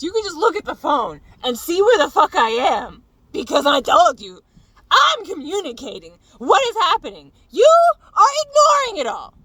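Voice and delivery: loud, high-pitched angry yelling; retold yelling. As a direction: scream it at him, climbing. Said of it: "So I'm yelling at him".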